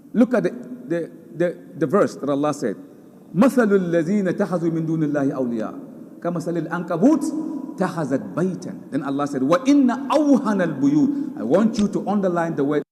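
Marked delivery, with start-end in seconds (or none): 3.3-8.9 fast melodic Arabic recitation; rapid Quranic chant. Acted. 9.4-11.4 fast melodic Arabic recitation; rapid Quranic chant. Acted.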